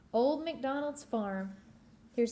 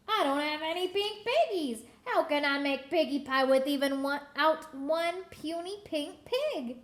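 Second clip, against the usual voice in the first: higher, agitated hag complaint; a fretting witch, lightly voiced; upset witch; 3 semitones higher than usual. Witch ranting.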